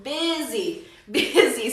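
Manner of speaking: "Busy" said as BIH-zee; pronunciation model. Shown as a demonstration. Teacher explains the U is not pronounced, clear BIH-zee. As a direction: say "Busy" with a short i, no U sound. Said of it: "pero no se pronuncia con U".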